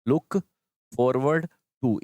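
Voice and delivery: look, pause, then forward to dragged out; very slow broken drill. Shown as a demonstration. Teacher slowly drilling pupils on the phrase. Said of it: "इनमें भी to क्या है?".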